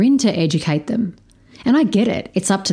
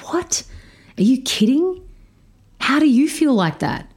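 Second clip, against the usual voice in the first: surprised; 8 semitones higher than usual. Retold or imitated. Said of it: "The look on her face was like".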